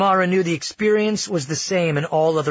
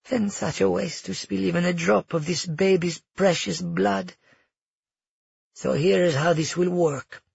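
lightly voiced villain, measured and composed; calm grandmother; 4 semitones higher than usual. Grandmother explains the coming executions, calmly menacing. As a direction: lay out the threat calmly. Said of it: "her grandmother calmly explain all this".

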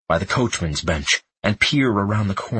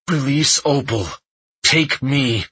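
desperate plea; 5 semitones higher than usual. A narrator's reading. Wounded boy begs for his sister.

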